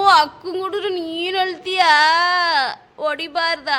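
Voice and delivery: put-on slow, drawn-out coo to a crying child; cooing baby talk. Parent asking the crying child about hitting big sister, drawn-out cooing. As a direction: stretch the vowels in mock sympathy.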